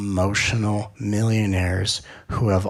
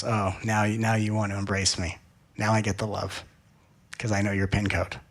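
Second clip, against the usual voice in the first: put-on disinterested child; 4 semitones lower, 6 dB quieter than usual. Inner child suspicious of sudden affection, soft and disinterested. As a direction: sound bored and a little hurt. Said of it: "gets a little disinterested because it goes".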